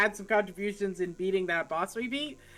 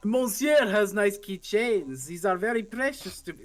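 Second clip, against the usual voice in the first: bad French accent. Player voicing a character trading keychains, bad French accent. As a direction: do a shaky attempt at a French accent. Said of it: "here's a terrible French accent".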